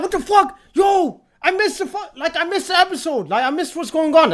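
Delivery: acting out a startled realization at normal volume; retold alarm. Viewer waking up to find he missed the episode, retold alarm.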